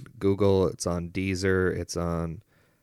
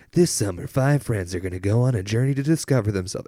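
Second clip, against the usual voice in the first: trailer voiceover; 3 semitones higher, 4 dB louder than usual. Retold or imitated. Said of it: "do voiceovers like that".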